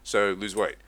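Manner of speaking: dismissive doctor voice, loud oh; mocking doctor. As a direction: imitate a bored doctor brushing you off. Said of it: "they're just gonna be like".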